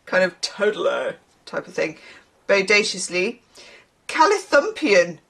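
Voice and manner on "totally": lightly voiced dude; a hint of Bill and Ted; Bill and Ted style. Reader showing what the word evokes, lightly as Bill and Ted. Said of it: "whole kind of Bill and Ted".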